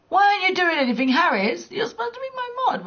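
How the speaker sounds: exasperated shrill scolding; indignant complaint. Real, not acted. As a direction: tell off the mod who let it happen. Scolding the mod on stream.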